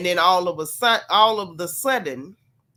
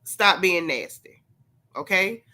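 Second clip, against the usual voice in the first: Sunday school teacher. Shown as a demonstration. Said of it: "in his best Sunday school teacher voice".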